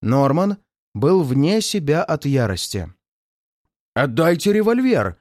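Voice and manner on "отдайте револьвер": furious roar. A narrator's reading. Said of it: "заревел он".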